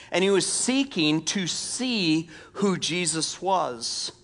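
measured, deliberate Bible reading; preacher reading scripture aloud. Acted. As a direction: read the passage aloud, drawing out key phrases. Reads scripture aloud to congregation.

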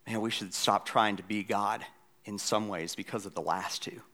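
usual speaking voice

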